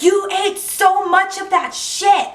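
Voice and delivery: a mother staring at the vomit in shock; shocked mom. Retold or imitated. Mom reacts to her vomiting.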